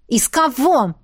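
a touch of a snarl. A narrator's reading. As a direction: bite back the question. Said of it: "вызверилась я". (огрызнувшись)

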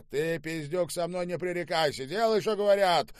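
high-pitched, forceful scolding; angry command. Acted. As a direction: cut off the protest. Штаубе cuts off servant's protest. (гневно, не терпя возражений)

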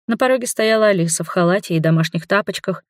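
usual speaking voice

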